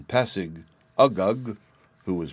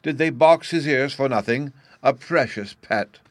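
doting mother; 6 semitones higher, 6 dB louder than usual. Acted. Mother coddles her howling son.

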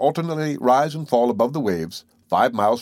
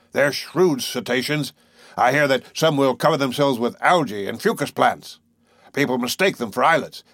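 lightly voiced boastful harpooner; 3 semitones higher than usual. Harpooner telling tales of sperm whales, lightly boastful. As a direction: spin a whaler's yarn with relish.

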